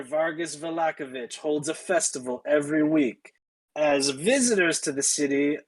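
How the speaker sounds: guard's rote official spiel; mildly deadpan city-gate speech. Acted. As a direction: recite the rules with little excitement. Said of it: "she is totally deadpan".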